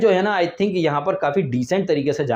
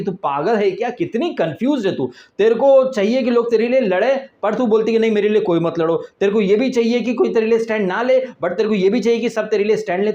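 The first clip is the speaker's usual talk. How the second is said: mock dressing-down, pitched up; Sajid Khan; 4 semitones higher than usual. Host scolding a confused contestant, mock telling-off. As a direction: tick her off in a hammed-up scolding. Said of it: "तबीयत से झाड़ के रख देता है".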